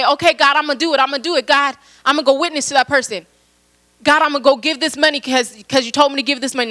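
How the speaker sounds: lightly acted, quick eager vow; eager promising. Believer promising God to go witness, lightly acted eagerness.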